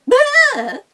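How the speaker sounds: high, loud goat bleat. Acted. Billy goat bleating as it flees. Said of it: "billy goat went".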